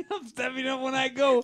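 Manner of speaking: high, strained mock outburst through laughter; mock all-caps yelling. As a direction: imitate an angry typer, high-pitched. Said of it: "All caps".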